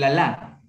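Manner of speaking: "alá" stressed on the final á; stress on final syllable. Shown as a demonstration. Teacher giving student another example, final-syllable stress. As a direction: hit the last syllable of "alá". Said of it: "sí lleva tilde".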